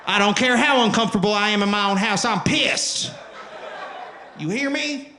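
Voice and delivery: high, loud redneck rant; angry redneck. Acted. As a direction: rant like a pissed-off redneck, hammed-up. Angry redneck boycotter ranting.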